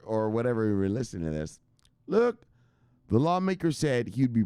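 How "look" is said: shout. Real, not acted. Hyped rant.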